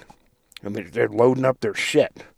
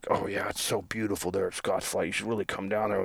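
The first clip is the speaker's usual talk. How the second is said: mock creepy coaxing; 4 semitones lower, 12 dB quieter than usual. Weirdo driver coaxing.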